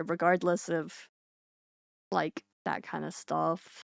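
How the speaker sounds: slow, sleepy words through a yawn. Real, not acted. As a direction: talk while stifling a yawn. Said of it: "I don't know why I keep yawning".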